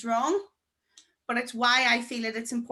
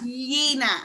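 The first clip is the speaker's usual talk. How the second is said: underbite; 3 dB louder than usual. Shown as a demonstration. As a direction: push the bottom jaw forward on "Yena". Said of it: "You nearly have to push your bottom jaw".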